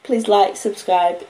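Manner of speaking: plain reading voice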